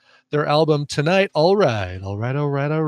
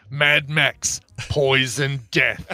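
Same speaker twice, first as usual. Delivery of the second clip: dramatic trailer voice; much slower than usual. Pretend. Slow dramatic movie title.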